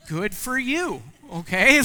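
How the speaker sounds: rude dad. Retold or imitated. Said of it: "I'm that rude".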